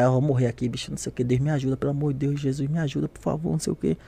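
low, very soft pleading; hushed mock despair; imitated inner prayer. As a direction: plead privately, as if in your head. Acts out panicked inner prayer.

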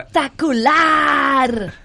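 slow, stretched shout of Espectacular; drawn-out exclamation. Pretend. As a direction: stretch it out like a TV host. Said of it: "hazlo otra vez".

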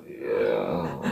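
flat dry yeah. Retold or imitated. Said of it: "Raymond in the coach go".

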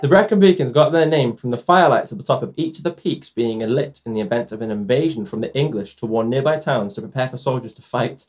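running out of breath mid-sentence; breathless, no pause to inhale. Real, not acted. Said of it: "I just didn't take a breath".

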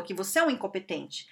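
usual speaking voice

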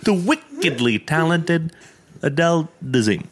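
awkward mispronounced intro; stumbling announcer. Retold or imitated. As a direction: read it like a botched teleprompter. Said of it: "He goes".

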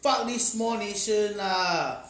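laughing mock sneer, loud and slow; mocking foreigners. Mocking foreigners' view of Singapore.

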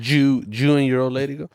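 put-on light Mexican accent on "Jew and your old lady go"; a quick hint of Mexican accent. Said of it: "snuck in that Mexican accent".

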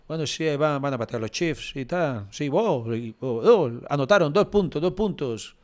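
passionless narrator. Retold or imitated. Mocks bored Super Bowl commentators, dull and flat. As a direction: narrate the game like you don't care. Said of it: "narrando así como".

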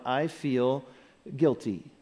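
low, soft, spaced-out admissions; quietly name the feeling aloud to yourself; said to oneself. Shown as a demonstration. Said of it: "say it to yourself out loud".

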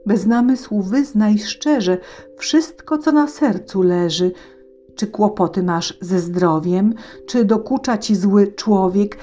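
concerned horse voice. Acted. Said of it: "zatroskanym głosem spytał".

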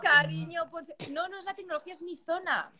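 cutting out on a bad connection; choppy, dropping video call audio; glitching audio. Real, not acted. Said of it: "ya no te, te cortas".

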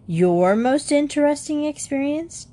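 mocking rise on interesting; jeering. Younger brother mocking Jan's theme title, jeering. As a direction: sneer the title back at him. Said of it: "jeered Jody".

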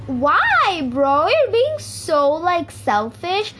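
high, drawn-out mock complaint; whining accusation. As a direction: imitate an aggrieved friend, pitch swooping up. Friend's retold accusing complaint.

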